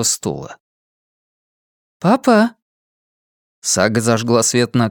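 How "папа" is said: calling out. Acted. Calling father in empty house.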